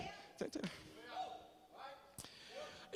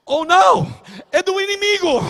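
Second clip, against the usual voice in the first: gasp, then high loud cry; hammed-up alarm, shooting up in pitch; mock horror; 11 semitones higher, 14 dB louder than usual. Shopper discovering the rival team's sponsor, mock horror.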